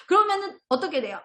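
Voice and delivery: ordinary talk, nothing marked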